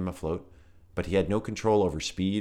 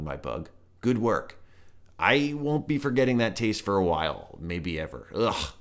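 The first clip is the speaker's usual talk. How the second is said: disgusted toad; 3 semitones higher than usual. Acted. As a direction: spit it out like a grossed-out toad. Toad character voice.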